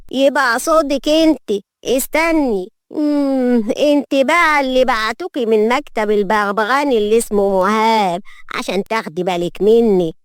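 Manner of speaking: deliberate, domineering matriarch sizing someone up; haughty old grandmother. Acted. Grandmother sizing up the new maid, haughty. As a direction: look down on the newcomer as you speak.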